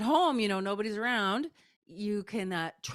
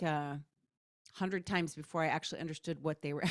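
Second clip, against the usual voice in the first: ordinary delivery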